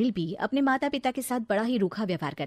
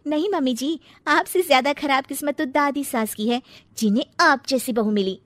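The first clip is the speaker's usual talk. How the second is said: taunting; 5 semitones higher, 4 dB louder than usual. Acted. Bride taunts mother-in-law.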